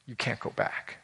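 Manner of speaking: sermon whisper for emphasis; hushed whisper. Real, not acted. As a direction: lean in and whisper it. Preacher drops to hush.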